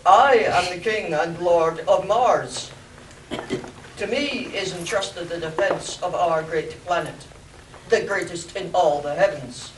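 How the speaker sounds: loud, booming alien ruler; Martian overlord voice. Acted. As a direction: proclaim like an alien king. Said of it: "the Martian's voice spoke".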